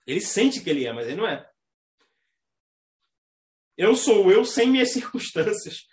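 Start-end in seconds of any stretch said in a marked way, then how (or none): 3.8-5.9 slowed, self-satisfied declaration; a lightly voiced smug Capricorn, slowly; slow proud Capricorn motto. Imitating a Capricorn who thinks he needs no one, slow and proud. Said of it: "É Capricórnio isso daí".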